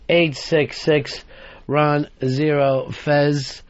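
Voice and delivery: slow, spelled-out number reading; each word drawn out deliberately; slow repeat. Shown as a demonstration.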